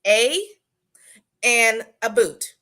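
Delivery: Canadian aboot, drawn out; Canadian "a boot", slowly; Canadian accent. Shown as a demonstration. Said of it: "you only have two Canadian words".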